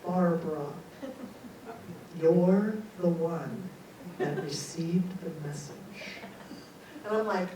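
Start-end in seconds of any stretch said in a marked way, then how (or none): 0.1-5.7 low, slow, portentous pronouncement; deep, measured voice from beyond; mysterious big voice. Retold or imitated. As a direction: space the words out like an oracle. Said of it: "the voice from the living room".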